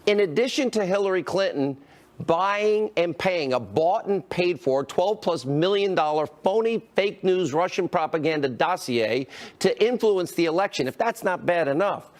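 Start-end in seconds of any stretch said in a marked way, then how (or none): 0.0-8.5 deliberate, higher-pitched emphasis with pauses; slow down and lay it out piece by piece; measured, emphatic delivery. Real, not acted. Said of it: "let me slow down here".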